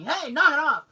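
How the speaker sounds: imitated dad's yell. Dad to the yelling kids, imitated sharp yell. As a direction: yell like a dad breaking up noisy play. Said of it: "My dad doesn't yell".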